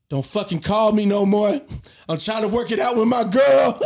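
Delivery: loud, high retold yell into the phone; mock shout. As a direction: yell it like you're dumping the caller. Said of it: "I said".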